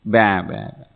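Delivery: low, short imitated bleats; lightly voiced sheep bleat. Small lion answering the big lion, bleating like sheep. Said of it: "Then the small lion says".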